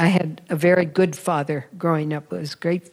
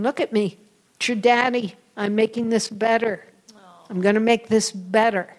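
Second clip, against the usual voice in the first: father's reassurance; 3 semitones higher than usual. Retold or imitated. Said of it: "He kept saying".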